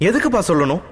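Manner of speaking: high tearful plea. Acted. Daughter pleads with her father, tearful and high. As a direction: ask through tears. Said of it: "அழுகை கலந்த குரலில்".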